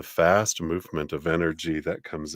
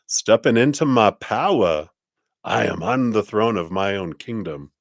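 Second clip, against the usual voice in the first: louder, proud declaration; lightly regal queen; 3 semitones higher, 4 dB louder than usual. Retold or imitated. Queen of wands claiming her kingdom, proudly. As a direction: claim the throne with confidence. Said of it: "The Queen of Wands".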